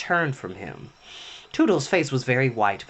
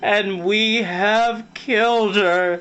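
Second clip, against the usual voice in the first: hoarse; 7 semitones higher, 4 dB louder, much slower than usual. A narrator's reading. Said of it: "said Nibs hoarsely".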